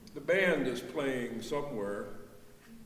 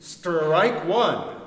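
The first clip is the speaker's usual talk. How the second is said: umpire's call; 3 semitones higher, 10 dB louder than usual. A narrator's reading. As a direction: bark it out like an umpire. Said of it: "the umpire said".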